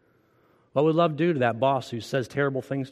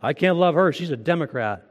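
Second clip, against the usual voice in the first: louder, scornful quoted excuse; mock excuse; 3 semitones higher, 5 dB louder than usual. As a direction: sneer it like a grudging believer. Mocking an imagined churchgoer's excuse.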